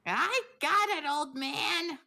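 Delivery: calling back. Acted. Jasper calling back to shopkeeper.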